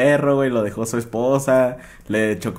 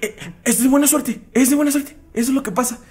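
high soothing mom voice; mock mother; 12 semitones higher than usual. Mother hushes her crying little boy, high mock mom voice. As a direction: hush the crying kid like a mom.

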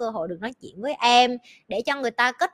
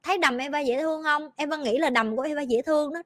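put-on proud little girl; 3 semitones higher than usual. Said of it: "nó gặp bạn nó".

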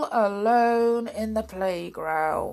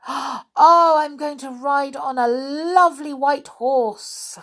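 high delighted little voice; excited child; 8 semitones higher, 6 dB louder than usual. A narrator's reading. Another child at the fair, high and delighted. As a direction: gasp then gush about the horse. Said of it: "cried another".

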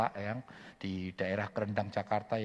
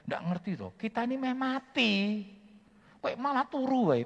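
much higher, louder at the end, exasperated fisherman; panicked complaining Peter; 12 semitones higher, 3 dB louder than usual. Retold or imitated. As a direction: scold the sleeping Jesus in mock panic. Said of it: "Petrusnya panggil".

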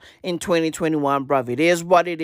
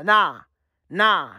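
ordinary talk

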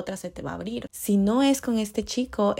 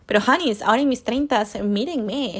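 emphatic call to viewers; 4 semitones higher, 5 dB louder than usual. Real, not acted.

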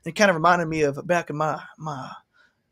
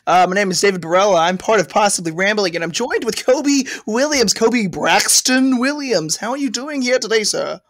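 put-on Southern accent; 2 semitones higher than usual. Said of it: "I was feeling very Tex in here today".

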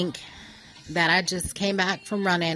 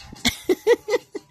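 laugh; 14 semitones higher, 3 dB louder than usual. Real, not acted. Laughs at body-rolling image.

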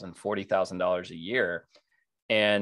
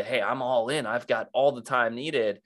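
eager new coach; 3 semitones higher than usual. Retold or imitated. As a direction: pitch yourself as keen and available. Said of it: "where someone else might say".

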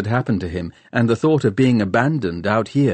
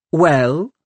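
challenging prompt; 7 semitones higher, 5 dB louder than usual. A narrator's reading. Challenging him to admit it.

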